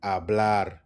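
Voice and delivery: Hablar as ah-BLAR, no H; stress on bla. Shown as a demonstration. Teacher drilling the emphasis, "Hablar" with silent H. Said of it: "Emphasis on the bla".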